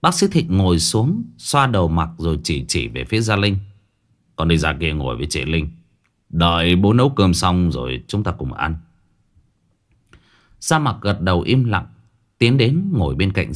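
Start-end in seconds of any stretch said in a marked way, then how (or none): 4.4-8.8 lightly voiced father, lower pitch; fatherly instruction. Doctor sends the boy to sit with his sister, lightly fatherly. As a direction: send the child off in a lowered fatherly voice.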